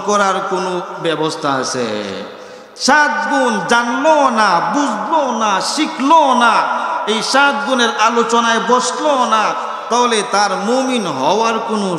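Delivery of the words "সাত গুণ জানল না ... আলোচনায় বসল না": slow, drawn-out rhetorical refrain; emphatic preaching. Real, not acted. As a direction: hammer each phrase, stretching the vowels. (টেনে টেনে জোর দিয়ে ওয়াজ)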